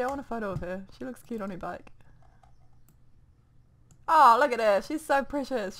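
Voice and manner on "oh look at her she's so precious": cooing. Real, not acted. Cooing over Vera's photo.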